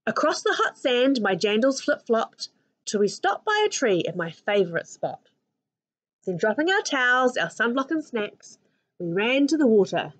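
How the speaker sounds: put-on lively read-aloud for children; picture book read to a class; story narration. A narrator's reading.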